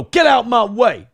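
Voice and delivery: high, loud, drawn-out mock yell; imitated shout. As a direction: imitate an angry passenger shouting. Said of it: "and you go".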